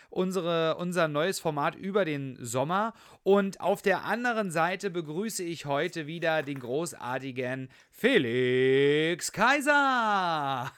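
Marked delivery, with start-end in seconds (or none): 6.4-10.7 boxing ring announcer. Pretend. Co-host introduced like a fighter.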